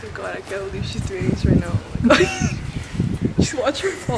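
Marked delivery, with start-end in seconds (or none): 1.7-3.4 stretched, high oh my god; slow amazed gasp; drawn-out disbelief. Real, not acted. Watching coworker do prank.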